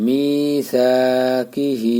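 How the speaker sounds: slow, drawn-out recited word; Quran recitation. Shown as a demonstration. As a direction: chant it slowly with the long vowel. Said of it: "এই টানটা থাকবে". (ধীরে টেনে তিলাওয়াত)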